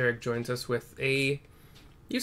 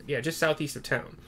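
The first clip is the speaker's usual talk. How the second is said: a hint of a proud craftsman; lightly voiced tinkerer. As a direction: speak like a self-assured man. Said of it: "a man that talks like this".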